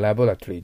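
"ラボラトリー" said in full, all syllables to "tory"; full laboratory. Shown as a demonstration. Teacher cites what Americans avoid, full-length laboratory. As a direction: run through every syllable of "ラボラトリー". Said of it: "ラボラトリーって言いません".

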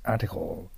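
"article" with a clearly finished L; firm final L. Shown as a demonstration. Teacher models the word after the drill, "article" with a firm final L. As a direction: land "article" on a distinct L. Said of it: "Lの発音をしっかり出す".

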